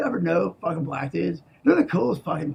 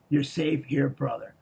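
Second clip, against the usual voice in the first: warm night voice; 4 semitones lower, 5 dB quieter than usual. Retold or imitated. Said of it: "warm, African fucking night voice".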